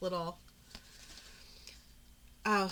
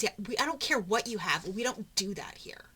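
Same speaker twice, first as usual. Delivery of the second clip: rude clerk; 2 semitones higher, 5 dB louder than usual. Retold or imitated. Rude clerk refusing appointment.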